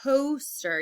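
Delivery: "Poster" with the first vowel held; long O demonstration. Shown as a demonstration. Teacher has pupils listen for the vowel, long O lengthened. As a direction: lean into the O of "Poster". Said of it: "You hear that long O sound".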